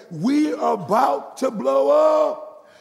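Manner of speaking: loud, high, very slow holler; drawn-out mock warning yell; acted crowd shout. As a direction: shout it word by word, stretching UP. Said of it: "they would say".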